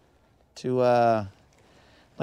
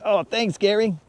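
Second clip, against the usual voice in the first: sheepish thanks; 7 semitones higher than usual. Retold or imitated. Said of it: "I'll be like".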